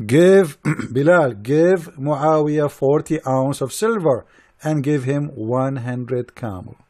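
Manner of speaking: lightly voiced slow, drawn-out decree; a hint of a lordly order, slowly; mock Prophet's command. Mocking the Prophet paying Yazid, slow light decree. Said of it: "He said".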